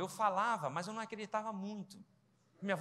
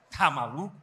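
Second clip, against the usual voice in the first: shocked outcry; 5 semitones lower, 10 dB louder than usual. Real, not acted. Reacting to drinking from denture cup.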